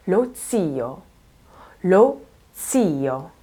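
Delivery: ZIO begun with an unvoiced ts. Shown as a demonstration. Teacher modelling the first pronunciation, unvoiced ts in zio. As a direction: say the z of ZIO as ts, no vibration. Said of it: "That is unvoiced, no vibration here".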